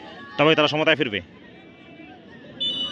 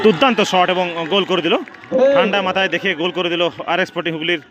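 excited goal call; 3 semitones higher than usual. Real, not acted. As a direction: cheer the finish as it goes in. Goal scored in shootout.

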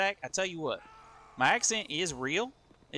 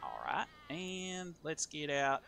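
usual speaking voice

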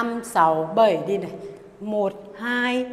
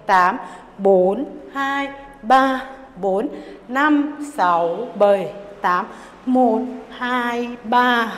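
punchy dance-class beat count; much slower than usual. Acted. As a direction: call the beats out to the music.

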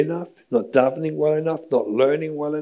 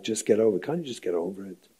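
dismissive parent; 3 semitones lower, 6 dB quieter, faster than usual. Retold or imitated. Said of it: "when we say idiotic things like".

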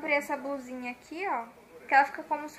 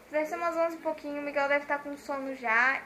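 usual speaking voice

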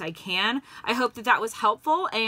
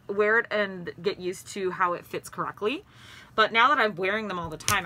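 muffled behind cloth mask; speaking into fabric covering; through a face mask. Real, not acted. Seen 2: Cloth mask covers nose and mouth throughout; reference frames unmasked.

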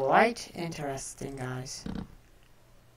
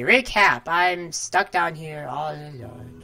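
pained voice; 8 dB louder, slower than usual. Pretend. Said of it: "don't you just sound in pain".

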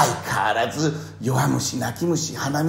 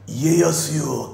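slow call; 4 semitones higher, 5 dB louder, much slower than usual. Retold or imitated. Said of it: "って信長が".

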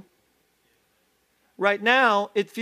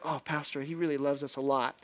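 soft mock adoring; 5 semitones lower, 7 dB quieter than usual. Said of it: "some of you are like".

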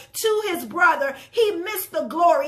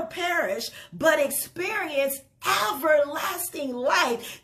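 slow, reverent reading of the verse; solemn scripture reading. Acted. Preacher reading John to the congregation, slow and reverent. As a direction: let each word of the promise land.

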